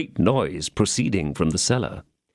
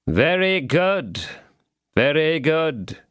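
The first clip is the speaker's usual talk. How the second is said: calm; 5 semitones higher, slower than usual. A narrator's reading. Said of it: "said the calm voice of Athos".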